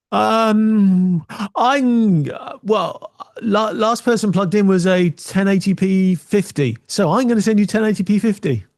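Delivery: high, slow, unsure machine; computer voice. Pretend. Computer guesses the signal, lightly voiced hesitant machine. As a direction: mumble like a muddled computer.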